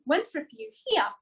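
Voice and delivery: a high, tentative call into the empty room; calling out hopefully. Retold or imitated. Calling out to dead horse.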